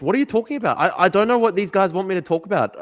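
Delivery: high-pitched, loud bafflement; bewildered. Real, not acted. Streamer to viewers about a baffling request, bewildered. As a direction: throw it back at them, high and incredulous.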